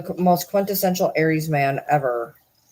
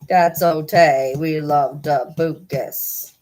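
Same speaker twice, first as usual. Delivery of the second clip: slow cutesy pet-owner babble; slower than usual. Real, not acted. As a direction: coo it slowly to a beloved cat. Baby talk to the cat.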